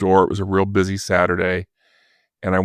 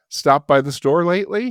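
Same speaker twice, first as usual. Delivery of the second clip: sly knowing question; 8 semitones higher than usual. Retold or imitated. Caller hinting he knows.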